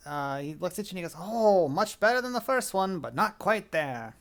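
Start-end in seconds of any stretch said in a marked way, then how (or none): 1.2-4.1 higher-pitched showman, easing down at the end; lightly voiced fairground judge; carnival barker. Carnival man judges second swing.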